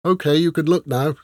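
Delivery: slightly muffled voice. Acted. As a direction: talk as if through a bag. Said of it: "her voice slightly muffled".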